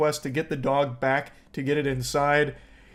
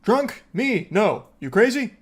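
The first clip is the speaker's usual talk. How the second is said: imitating a drunk woman insisting she's sober, pitched higher; mock sober denial; 3 semitones higher than usual. Commentator mocks drunk caller denying she's drunk, hammed-up. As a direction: play the offended innocent, a bit too high. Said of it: "putting on a strong show of sobriety".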